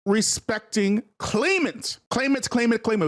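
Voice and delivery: claimant repeated, each one leaned on; stress on claimant. Shown as a demonstration. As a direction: hammer home the word claimant. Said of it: "we have to say claimant".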